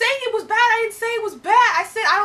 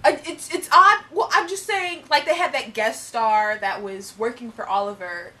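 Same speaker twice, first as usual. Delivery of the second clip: fake British accent. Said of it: "we're doing our accents".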